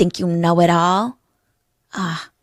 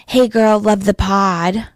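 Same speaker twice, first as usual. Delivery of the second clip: mock fan message; slower than usual. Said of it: "influx of messages".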